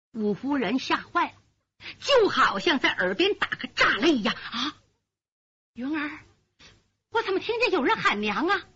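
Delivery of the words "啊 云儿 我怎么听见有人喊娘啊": put-on startled old mother.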